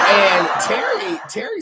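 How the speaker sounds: slow, laughing through the name; can't hold the laugh in; giggling as she starts again. Real, not acted. Laughing while telling.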